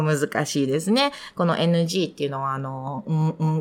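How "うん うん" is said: うん hummed through the nose as English ng; closed-mouth ng on うん; nasal NG sound. Shown as a demonstration. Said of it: "鼻から出す音".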